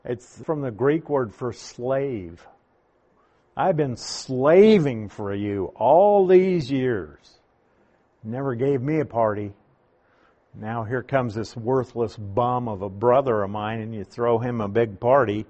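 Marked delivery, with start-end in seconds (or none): 3.6-15.5 bitter complaint. Acted. Brother who slaved for years to father, mildly bitter. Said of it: "So he's bitter about it".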